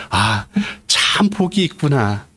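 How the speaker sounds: a slow, drawn-out sigh of admiration; exclamation of wonder. Shown as a demonstration. Preacher showing listeners how to read the verse, with slow wonder. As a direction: marvel at it, lingering on the words. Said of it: "어떻게 읽어야 됩니까".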